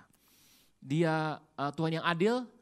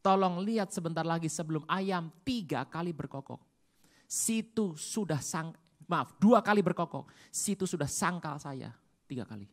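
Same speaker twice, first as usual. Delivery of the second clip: Jesus to Peter; 4 dB louder, slower than usual. Retold or imitated. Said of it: "Dia bilang sama Petrus".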